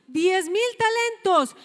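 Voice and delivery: "Diez mil talentos" dicho lento y marcado; énfasis en la cifra. Shown as a demonstration. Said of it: "Una deuda que no se podía pagar". (subraya "Diez mil talentos" con peso)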